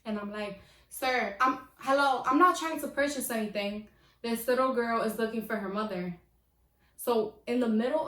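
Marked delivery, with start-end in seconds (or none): 0.9-6.2 raised voice, louder and insistent; louder, exasperated plea to an ignoring cashier; getting louder. Retold or imitated. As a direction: make him listen. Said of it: "So I start getting louder at this point".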